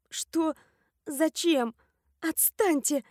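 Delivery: high, croaky protest; croaked. A narrator's reading. Sleeper robbed of the blanket, croaking in protest. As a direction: croak it out, pestered awake. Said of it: "прохрипела я".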